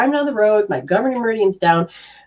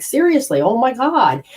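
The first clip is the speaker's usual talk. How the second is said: exasperated; 4 semitones higher than usual. Retold or imitated. Kids freaking out.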